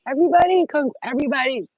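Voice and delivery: high, loud rally call. Real, not acted. Calling on viewers to clap for Crystal, high loud call. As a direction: call the whole chat to attention. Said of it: "I need you to clap".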